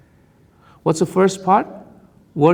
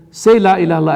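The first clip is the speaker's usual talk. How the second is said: firm loud command; 3 semitones higher, 6 dB louder, much faster than usual. Retold or imitated. Prophet commands dying man.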